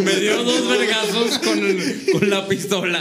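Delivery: talking through laughter; amused, laughing retelling. Real, not acted. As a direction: let the laugh carry through the words. Laughs while retelling the pistol blows.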